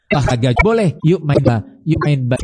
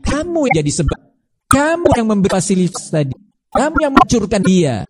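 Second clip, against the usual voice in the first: rebuking parents; 5 semitones higher than usual. Acted.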